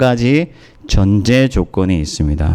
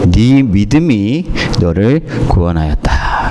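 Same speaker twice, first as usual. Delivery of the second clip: quoting Jesus. Retold or imitated. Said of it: "그렇게 말씀해 주세요".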